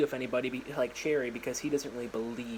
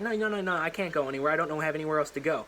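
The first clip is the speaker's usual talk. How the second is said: put-on pleading girl; 3 semitones higher, faster than usual. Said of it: "And she's like".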